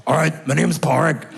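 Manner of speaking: a teen boy voiced as a fifty-four-year-old smoker; smoker's voice impression. Comedian imitating Pádraig as a lightly voiced gruff smoker. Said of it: "This is how he talked".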